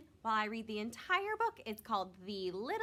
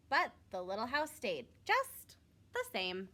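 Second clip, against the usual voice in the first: gentle storybook narration; reading to children. A narrator's reading. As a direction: read it like a bedtime story for kids.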